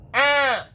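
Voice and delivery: high, squeaky "ah"; squeaky cry. A narrator's reading. Tiny mouse being stepped near, squeaky cry. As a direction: let out a small high-pitched yelp. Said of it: "the squeaky voice said".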